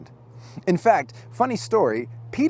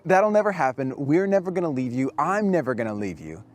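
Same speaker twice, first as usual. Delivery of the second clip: puffed-up bravado. Retold or imitated. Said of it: "He was peacocking".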